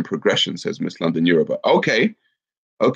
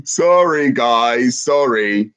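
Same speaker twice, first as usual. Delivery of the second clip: laughing apology; 5 semitones higher, 4 dB louder, much slower than usual. Real, not acted. Laughing apology after low blow.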